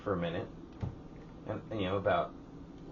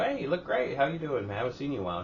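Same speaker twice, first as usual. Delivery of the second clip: chirpy, higher-pitched retold hello; friendly greeting; 6 semitones higher, faster than usual. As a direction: greet her high and easy, as retold. Retold friendly greeting to deli lady.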